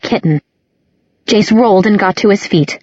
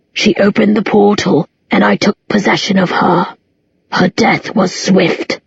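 menacing demon voice. Acted. Demon Abaddon speaks.

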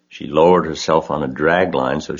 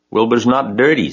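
proudly; 7 semitones higher, 4 dB louder than usual. A narrator's reading. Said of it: "said Mister Zuckerman proudly".

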